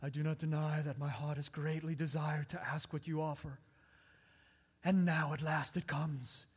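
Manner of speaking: lightly voiced elf queen, restrained and low; measured, grave delivery of a tempted queen; Cate Blanchett. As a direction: hold back before the outburst. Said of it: "my best Cate Blanchett voice here".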